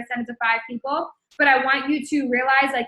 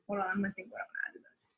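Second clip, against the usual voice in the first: whispered aside; 4 semitones lower, 15 dB quieter, faster than usual. Real, not acted. Aside while composing message.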